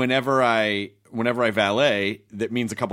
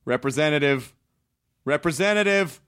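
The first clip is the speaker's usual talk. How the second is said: yelling at phone menu; 3 semitones higher than usual. Retold or imitated. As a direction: escalate until you scream representative. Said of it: "I'm screaming at the automated voice".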